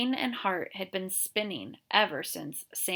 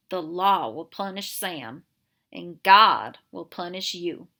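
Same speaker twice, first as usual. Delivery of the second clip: slow threat; 7 dB louder than usual. Acted.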